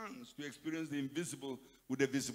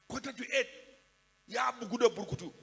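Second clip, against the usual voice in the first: higher and louder, an exclaimed repeat; 5 semitones higher, 5 dB louder, faster than usual. Shown as a demonstration. Preacher calling out the drunk classmate's state to the congregation, loud. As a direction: call it out louder the second time. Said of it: "first said low, then repeated".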